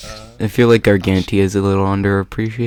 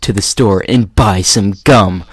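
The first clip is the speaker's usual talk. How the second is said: mocking cliffhanger; faster than usual. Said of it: "they had the stupidest cliffhangers".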